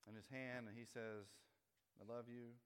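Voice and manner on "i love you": mock loves-me chant, level and held; petal-plucking verdict. God pulling flower petals over a person, mildly favourable. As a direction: pretend to pluck a petal on a yes. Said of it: "for each person, God has a flower".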